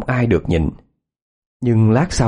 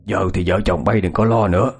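reassuring; 2 semitones lower than usual. Acted. Healer reassures the frightened parents.

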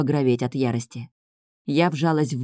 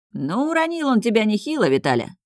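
higher, amused jab; smirking; 6 semitones higher than usual. Acted. Fox teasing Vitalya about being knocked down, smirking. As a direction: tease with a little smirk in the voice. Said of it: "усмехнулся большой лис".

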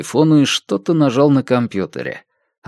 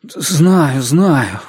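huffed, slightly raised reply; huffing; 4 semitones higher than usual. A narrator's reading. Иван follows a rehearsed script on the phone, huffing. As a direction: huff it out impatiently. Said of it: "пропыхтел Иван по заранее разученному сценарию".

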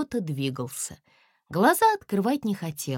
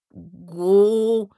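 strained syllable; 7 dB louder than usual. A narrator's reading. Cat straining to speak.

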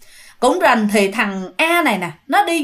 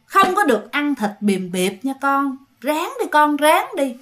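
lightly voiced tender ghost mother; gentle ghost mother; 2 semitones higher than usual. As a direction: coax him gently like a loving mother. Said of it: "nói nhẹ nhàng".

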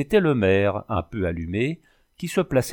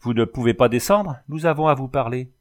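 raised voice up to a window; calling out; 3 semitones higher, 3 dB louder than usual. Acted. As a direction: call up to the gendarme at the window. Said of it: "Mignet cria". (appel à la fenêtre, voix haussée)

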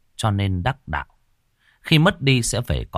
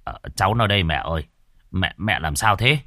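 surprised son. Acted. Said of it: "ngạc nhiên".

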